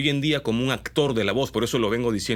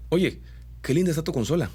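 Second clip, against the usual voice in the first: hammed-up Mexican singsong, pitched up on "linda"; exaggerated Mexican accent; 6 semitones higher than usual. Shown as a demonstration. Voice coach exaggerates a Mexican dubbing lilt. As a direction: sing the ending like a Mexican dubbing actor. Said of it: "si exagero un poco el dejo ... lo vuelvo medio mexicano".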